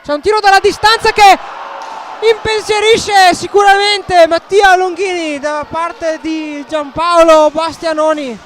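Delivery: rising excited play-by-play; excited commentary. Real, not acted. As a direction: lift the voice for the shot. Long shot, commentator rises.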